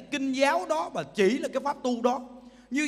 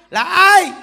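loud rhetorical question; 7 semitones higher, 12 dB louder than usual. Real, not acted.

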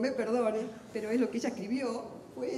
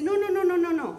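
high, loud string of quick nos; imitating an author's emphatic denial; 8 semitones higher, 9 dB louder than usual. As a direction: shoot the idea down hard. Author firmly denies, quoted.

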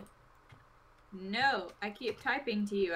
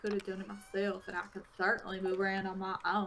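huffy old Southerner, voiced from game dialogue; Southern accent; 3 dB louder than usual. Old man rebuffs helpers, huffy Southern accent. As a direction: read it as an impatient Southern old-timer. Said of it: "He went from Southern to British".

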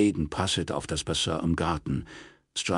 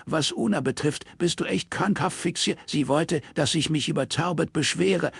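high, clipped retort from the angry daughter; lightly voiced daughter arguing back; defiant daughter; 10 semitones higher than usual. Daughter arguing with her father, lightly voiced anger.

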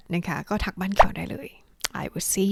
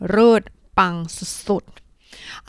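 cheer. Real, not acted. Teacher cheers learners. (ชมเสียงดัง ตื่นเต้น)

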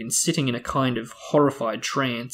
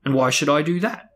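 sneering; 3 semitones higher, 3 dB louder than usual. Acted. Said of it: "sneered Uncle Vernon".

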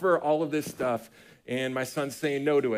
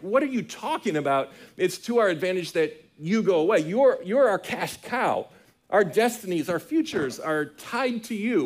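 higher-pitched, insistent disciples objecting; mock protest; 5 semitones higher than usual. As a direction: act out the disciples' disbelieving objection. Acting out disciples protesting to Jesus.

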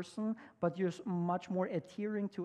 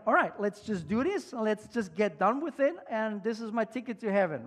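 louder, keen to get it done; a touch of hammed-up eagerness; eager checklist voice; 3 semitones higher, 6 dB louder than usual. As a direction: sound like a man who wants his ticket. Imagined eager rule-follower.

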